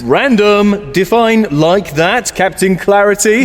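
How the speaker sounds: snarky, condescending cadence; sassy American talk. Acted. Mocking a stranger, snarky American sass. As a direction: sneer it like a sitcom character. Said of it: "condescending American person".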